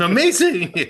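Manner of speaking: loud, high exclamation; excited shout. Acted. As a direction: belt it out with hype. Hyping co-host as amazing.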